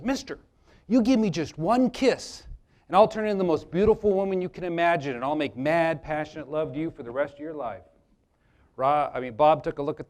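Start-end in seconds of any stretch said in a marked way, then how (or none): 0.0-7.8 lightly voiced frog making a seductive pitch; talking frog's offer. Frog promising Bob love for a kiss, coaxing. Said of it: "the frog looks at Bob. He says".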